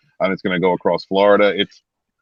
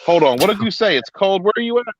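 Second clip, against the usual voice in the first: surprised; 10 semitones higher than usual. Real, not acted. Hearing a friend is freezing.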